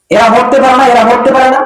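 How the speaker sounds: high-pitched exasperated mock outburst; scolding son. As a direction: act out a son cursing his parents, pitched high. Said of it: "মাকে ধমক দিয়ে ফেললেন". (ছেলের বিরক্ত ধমকের নকল, উঁচু গলায়)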